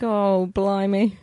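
put-on slow, hammy British accent; mock British accent. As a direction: drawl it like a Brit. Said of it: "a word that would be popular over there".

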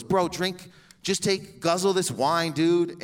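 mock urging from a party friend; egging him on. Acting out friend urging a drink.

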